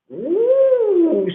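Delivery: high excited woo; excited whoop. Real, not acted. Excited cheer.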